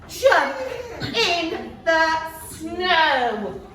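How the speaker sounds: gasp, then a slow delighted reveal; gasping excitement. Acted. Teacher to class, gasping with delight. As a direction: read it like a thrilling surprise.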